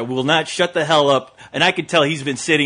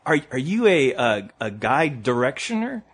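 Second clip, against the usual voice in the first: put-on tentative girl; 5 semitones lower than usual. Teen girl to the strange man, tentative asking. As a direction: imitate a hesitant teenager asking.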